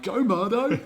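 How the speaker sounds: put-on high, loud cheer of kids. Kids cheering their teacher as he runs past, high and loud. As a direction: call out like a kid in the corridor.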